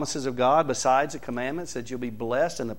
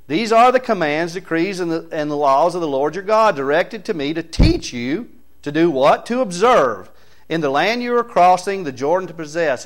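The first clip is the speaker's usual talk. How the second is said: emphatic scripture reading; 4 semitones higher, 6 dB louder than usual. Real, not acted. Preacher reading Deuteronomy six to the church, emphatic declamation. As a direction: declaim the verse with punched key words.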